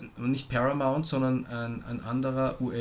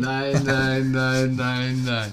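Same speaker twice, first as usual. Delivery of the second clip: giggly late night call; 7 dB louder than usual. Pretend. Mock hang-up-first game.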